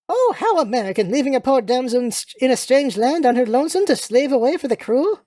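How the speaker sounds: melodramatic English damsel, lightly played; self-pitying British lady. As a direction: lament your fate as a British lady.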